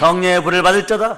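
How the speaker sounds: rousing pulpit proclamation; fervent sermon delivery; full-force preaching. Acted. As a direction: preach it out to the congregation. Repeated proclamation.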